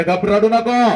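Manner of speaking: high, loud pleading hush from the mother; a mother begging her son to stop crying; mother hushing child. Acted. Mother to crying son, a high loud pleading hush. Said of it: "ती माऊली म्हणते".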